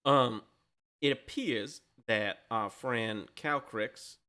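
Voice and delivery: lightly voiced halfling reporting back, halting and measured; relaxed halfling. Halfling relaying the dragon's words, mildly relaxed. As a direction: report it slowly with careful pauses. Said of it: "has relaxed, it seems".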